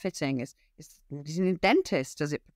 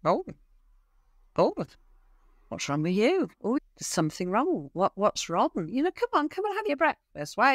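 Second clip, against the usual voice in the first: fussing over the dog; 4 semitones higher than usual. Retold or imitated. Owner fussing over sick dog.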